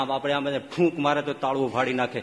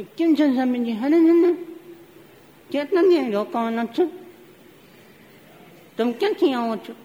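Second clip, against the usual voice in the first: put-on higher, louder eager young man's greeting; 10 semitones higher, 5 dB louder than usual. Young manager greeting the visiting swami, eager and higher.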